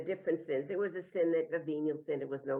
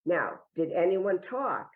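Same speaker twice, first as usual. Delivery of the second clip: stern questioning; 4 dB louder, slower than usual. Retold or imitated. Nun presses child after threat.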